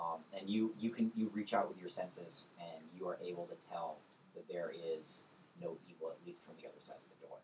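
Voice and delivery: normal talking voice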